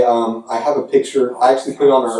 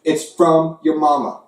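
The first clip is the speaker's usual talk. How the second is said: hint of a Southern hick accent ribbing rival fans; Southern redneck voice. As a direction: play a Southern SEC fan, Jim Bob Cooter, taunting UCF. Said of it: "Let's do the voice of the S E C".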